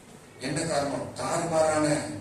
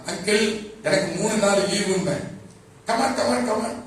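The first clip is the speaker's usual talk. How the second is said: eager mock invitation; 5 semitones higher, 4 dB louder than usual. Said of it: "அவர் எப்படி ஆளுன்னா".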